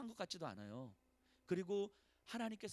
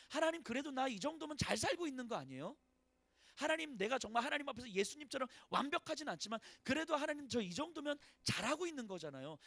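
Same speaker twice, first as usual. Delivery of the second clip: pleading complaint; 7 semitones higher, 3 dB louder than usual. Acted. Voicing David's complaint to God.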